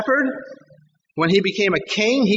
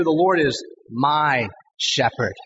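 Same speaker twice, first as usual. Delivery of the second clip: confident; 5 semitones lower, slower than usual. Acted. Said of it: "hear the confidence in David's voice".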